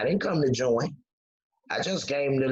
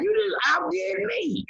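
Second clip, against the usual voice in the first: mock mad. Retold Kim's mock anger.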